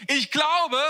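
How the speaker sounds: acted cry of a despairing believer. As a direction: call out for help as a desperate father. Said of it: "Und dann der Vater rief".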